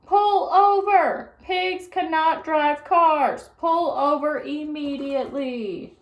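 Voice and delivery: high, loud, slow megaphone order; bullhorn shout. A narrator's reading. Policeman orders the car over through a bullhorn. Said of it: "shouted into his bullhorn".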